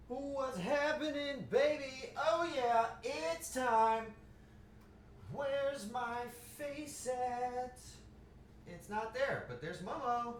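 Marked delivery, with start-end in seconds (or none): 0.1-7.8 higher, very slow, drawn-out put-on voice; hyped-up greeting voice. Streamer greets chat in a slow, high put-on voice. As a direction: stretch each word like a lounge singer.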